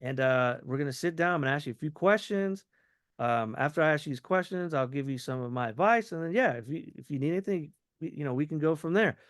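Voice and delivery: quick, flowing run-on with no pauses; run-on sentence. Shown as a demonstration. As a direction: roll straight through the plan. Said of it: "You do the run-on sentence".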